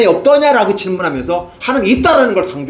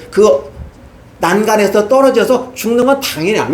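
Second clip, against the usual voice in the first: ordinary talk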